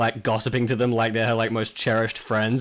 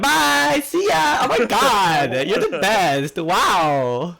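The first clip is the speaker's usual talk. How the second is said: much higher squeaky chorus voices; chattering stools; 9 semitones higher, 3 dB louder, much slower than usual. Acted. The tavern stools calling goodbye to Juliet, high and squeaky. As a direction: gush back like adoring little fans. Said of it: "the stools are all like".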